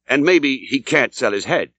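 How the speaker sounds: the landlord slows down for "maybe", savouring the joke; drawn-out teasing innkeeper line; sly landlord. Acted.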